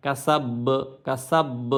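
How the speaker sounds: "কাসাব" with a bouncing final b; final b of "কাসাব" released with a small echo; qalqalah echo. Shown as a demonstration. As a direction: stop on the b of "কাসাব" and let it vibrate. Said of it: "থাম হয় তাহলে কম্পন হয়".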